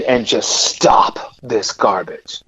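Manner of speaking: whispered, slow inner question. Retold or imitated. Torn man whispering his choice to himself. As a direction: murmur it to yourself, slowly.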